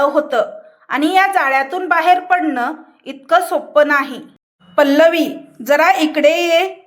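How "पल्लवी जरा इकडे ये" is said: commanding. Acted. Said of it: "तो हुकूम देणारा होता".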